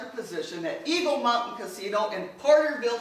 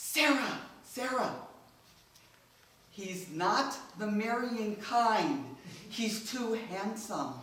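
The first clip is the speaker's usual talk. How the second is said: drawn-out, loud stage whisper; 6 dB quieter than usual. Retelling a brother's remark at a family event: imitating a loud whisper. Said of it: "in a whisper, loud enough for everybody in the room to hear".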